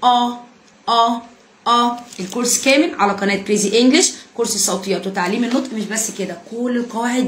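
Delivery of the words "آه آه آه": "آه" as a heavy back 'ah'; three separate, rounded "آه" sounds from the back of the mouth; emphatic A. Shown as a demonstration. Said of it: "أنا بنطقه مفخم".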